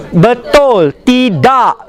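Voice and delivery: "Betul" and "Tidak" with a sharp unaspirated t; crisp Malay t sounds. Shown as a demonstration. Teacher models correct Malay t. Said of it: "the T is always very sharp".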